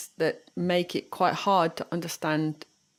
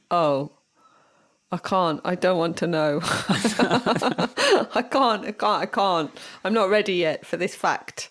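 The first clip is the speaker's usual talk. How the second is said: mock denial; 3 dB louder than usual. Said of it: "It's like".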